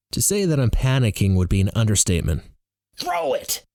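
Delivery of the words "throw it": very high-pitched urgent command; shrill urgent order; yelling. Acted. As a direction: yell it across the field. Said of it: "Roar yells".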